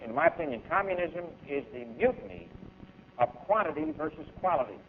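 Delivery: slow and deliberate, every word weighed. Shown as a demonstration. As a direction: spell it out slowly so it sinks in. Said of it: "I'm gonna say this slow".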